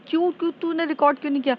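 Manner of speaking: high, fast, agitated demand; exasperated question. Retold or imitated. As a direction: fire the question off in frustration. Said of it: "तो कहती है".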